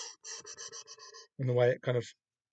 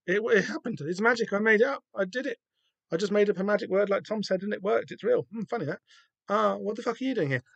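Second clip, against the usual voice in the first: put-on excited teenager; 8 semitones higher than usual. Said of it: "and Dane's like".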